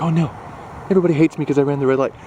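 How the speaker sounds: quick anxious inner voice; fast, fretful imagined thought; mock panic. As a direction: rush it like a worried thought. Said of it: "you think like".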